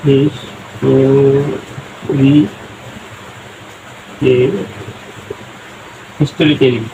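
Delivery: হিস্টোরি- stretched slowly, then হিস্টোরিক্যালি said as হিস্টোরিকলি; drawn-out demo. Shown as a demonstration. Teacher stretches হিস্টোরিক্যালি slowly for students. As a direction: draw out হিস্টোরি- before finishing the word. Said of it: "এটা উচ্চারণ হবে ঠিক এরকমই".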